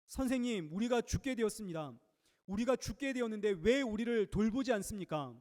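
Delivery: disciples shaking Jesus awake in alarm; panicked cry. Retold or imitated. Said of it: "흔들어 깨우면서 부르짖죠". (제자들이 다급하게 부르짖듯)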